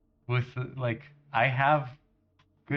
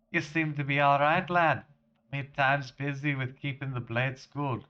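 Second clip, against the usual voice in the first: hearty generic Scottish lad-speak; terrible Scottish accent. Acted. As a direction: put on a bad Scottish accent. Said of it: "accent for this random character".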